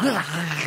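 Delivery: short imitated lion roar; mock throaty roar. Shown as a demonstration. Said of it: "He roars".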